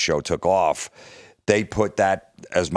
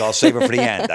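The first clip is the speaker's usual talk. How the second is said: high, loud goofy voice; puppet voice; 5 dB louder than usual. Retold or imitated. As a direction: squeak it out like the puppet character.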